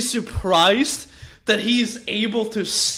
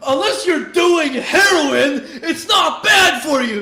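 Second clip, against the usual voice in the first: loud, slow mock-angry yell, laughing through it; imitating a pissed rapper; 7 semitones higher, 6 dB louder, slower than usual. A rapper answering a fan's energy drink question, mock angry yell. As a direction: bark it out like an irritated rapper answering fans. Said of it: "pissed about it".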